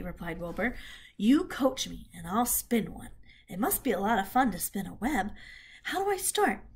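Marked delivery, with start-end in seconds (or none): 1.2-6.6 a piglet keen to begin; eager piglet. Acted. Wilbur's piglet voice.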